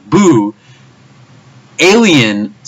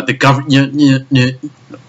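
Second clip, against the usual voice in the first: tripping over the word, stuck on its first sounds; stuttering; much slower than usual. Real, not acted. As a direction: stammer and restart until the words give out. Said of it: "I'm, like, stuttering and shit".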